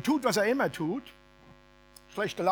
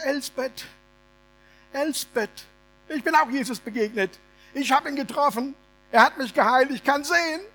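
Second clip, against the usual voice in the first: higher and louder, bursting with news; overjoyed; 7 semitones higher, 6 dB louder than usual. Acted. Bartimäus telling Elsbeth he has been healed, overjoyed. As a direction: blurt out the joy of seeing.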